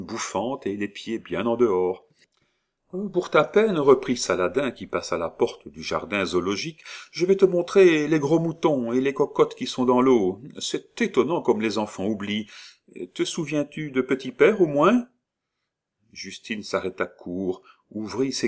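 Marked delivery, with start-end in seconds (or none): 3.1-15.1 put-on higher, louder coaxing old woman. Disguised old woman coaxes the child, higher and louder. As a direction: lure the child with treats.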